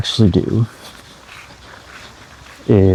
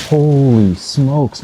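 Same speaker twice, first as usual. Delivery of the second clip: awed; 4 semitones higher, much slower than usual. Real, not acted. Awed exclamation, drawn out.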